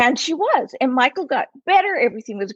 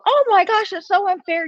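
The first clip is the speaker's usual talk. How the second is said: pitched up, gushing pity; dramatic sympathy; 9 semitones higher than usual. Retold or imitated. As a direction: overdo the sympathy, outraged on her behalf. Speaker mimics her own pity.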